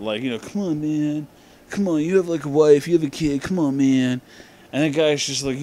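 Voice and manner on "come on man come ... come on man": lightly whining imitation of a fit; mock fit. Reviewer imitating Clay scolding his friend, mock fit. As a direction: mildly mimic someone protesting in a fit. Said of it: "throws a big fit about".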